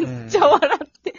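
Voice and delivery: loud laugh through words; laughing hard. Real, not acted. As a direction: crack up while talking.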